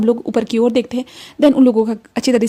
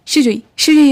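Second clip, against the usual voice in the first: शिजुई, शिजुई said louder and brighter with a rising lift; delighted repeat; 3 semitones higher, 6 dB louder than usual. Acted. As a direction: happily try out the new name शिजुई. Cheng approving the name.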